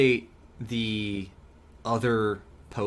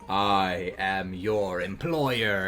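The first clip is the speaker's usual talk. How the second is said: Plankton parody voice; 4 semitones lower, much slower than usual. Pretend. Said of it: "it'd be a funny way to be like".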